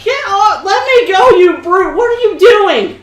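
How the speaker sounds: shrill, loud princess shrieks; high panicked protest while carried off; fluttering cries for help. Acted. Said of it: "She, she's like".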